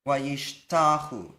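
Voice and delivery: wayishtachu said slowly, syllable by syllable, with no final eh; demo pronunciation. Shown as a demonstration. Teacher slowly models wayishtachu for students. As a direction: spell out wayishtachu slowly, letting the eh drop. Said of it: "when that eh drops away, you get".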